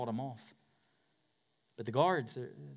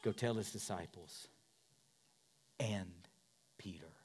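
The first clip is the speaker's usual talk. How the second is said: angel's words; 5 semitones lower, 7 dB quieter than usual. Retold or imitated. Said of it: "what does the angel say".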